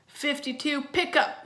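high, loud excited yell; screaming. A narrator's reading. Twins launching their card game, screaming. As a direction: shout it out like a gleeful kid. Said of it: "they screamed".

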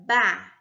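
"ba-ri-ga" in three separate beats; separated syllables. Shown as a demonstration. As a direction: break "ba-ri-ga" up, pausing long after each syllable. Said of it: "Leia e separe em sílabas". ("ba-ri-ga" sílaba por sílaba, com pausas longas)

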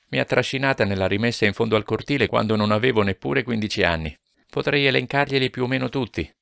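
put-on lively girl confiding bluntly to an older man; frank young Gina. A narrator's reading. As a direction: speak up frankly, with little laughs.

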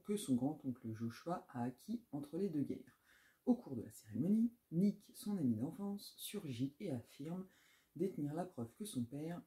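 steady back-cover read, evenly paced; reading a blurb aloud. Acted. Booktuber to viewers, reading the back-cover blurb aloud. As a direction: read the summary like a book presenter.

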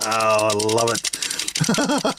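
real giggle, then a slow, low "I love it"; giggling. Real, not acted. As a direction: giggle helplessly at the toy. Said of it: "I don't know why I'm laughing".

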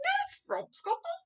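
high, loud string of questions; dismayed cry. A narrator's reading. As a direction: cry out in mounting disbelief. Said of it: "cried the B F G".

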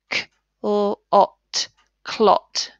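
"K, l, ot" split, then "clot" blended; segment, then blend; sounding out. Shown as a demonstration. Teacher blending the word clot for pupils. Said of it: "Can you hear the O?".

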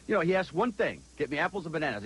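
high-pitched quoted wife; imitating wife. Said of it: "She says".

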